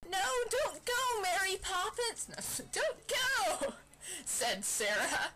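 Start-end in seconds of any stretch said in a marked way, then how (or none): 0.1-3.7 laughing plea. Acted. Sarah pleading, laughing.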